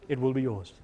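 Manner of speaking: deep, low lion king voice; Lion King impersonation. Retold or imitated. Pastor imitating Mufasa in a sermon, deep low voice. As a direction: boom it low like a wise lion father. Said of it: "That was my Lion King impersonation".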